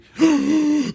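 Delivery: big, high, loud gasp; dramatic gasp of realization; imitated shocked gasp. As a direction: suck in air in acted horror. Imitates partner realising the news.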